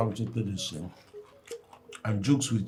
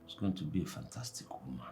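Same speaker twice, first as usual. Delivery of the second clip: quick secret whisper; 4 semitones lower, 9 dB quieter, faster than usual. Acted. Father hushes a promise to his daughter: quick whisper. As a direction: let it slip out as a hushed promise.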